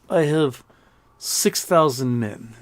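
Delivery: lightly voiced Russian general, drawn out; a hint of a boastful general, slowing down. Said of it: "Russian general says".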